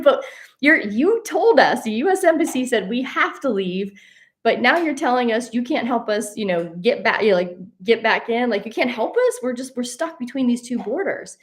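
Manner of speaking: high, loud, frantic pleading; exasperated protest. Retold or imitated. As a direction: throw your hands up at the embassy, loud and high. Stuck between borders, arguing with embassy.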